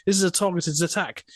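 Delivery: a hint of a stubborn big man digging in; insistent coworker. Coworker insisting to the HR lady, mildly stubborn. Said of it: "He goes".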